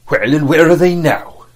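loud. A narrator's reading. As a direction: throw the question out loudly. Silver scorns the dead pirates.

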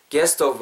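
"gas stove" with the two S sounds run together; joined S sounds. Shown as a demonstration. Teacher showing the linking, "gas stove" on a joined S. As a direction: hold one S across "gas stove". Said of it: "S랑 S 붙죠?".

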